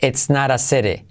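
It's not a city with flapped naɾ, seɾe; flapped t version. Shown as a demonstration. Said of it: "Mirad la diferencia".

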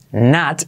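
"Not" with an unreleased t; barely pronounced T. Shown as a demonstration. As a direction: hold back the final t of "Not". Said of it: "esa T casi no se pronuncia".

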